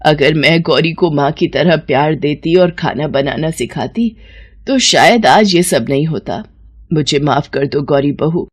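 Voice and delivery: low, subdued mother-in-law's apology; tearful remorse. Acted. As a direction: take the blame, low and regretful. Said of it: "उसकी सास की आंखों में आंसू आ जाते हैं".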